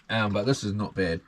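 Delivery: slurp the coffee while speaking; slurping hot coffee. Real, not acted. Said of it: "Excuse me for the slurping".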